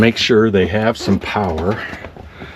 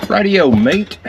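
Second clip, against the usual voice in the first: playful mock British accent, pitched higher; a jokey, hammed-up British "Rightio, mate"; 8 semitones higher, slower than usual. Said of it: "should we talk in a British accent".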